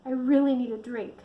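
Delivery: complaining. Acted. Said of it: "she complained".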